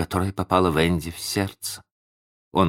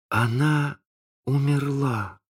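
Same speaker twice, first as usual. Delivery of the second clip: high, halting voice; hesitant, lightly dazed realisation; bewildered; 9 semitones higher, slower than usual. A narrator's reading. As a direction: pause between words, at a loss. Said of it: "сказал он в замешательстве".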